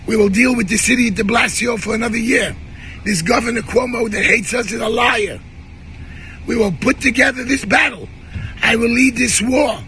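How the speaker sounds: fired-up defiance, half shouted; angry rally shout. Real, not acted. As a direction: rouse the crowd against the mayor. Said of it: "And I'm sorry that I'm angry".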